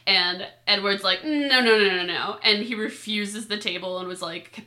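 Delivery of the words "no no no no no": rapid-fire string of refusals, louder at the start; emphatic refusal. Retold or imitated. Host retelling Edward turning down a table, emphatic refusal. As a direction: wave it away with repeated noes.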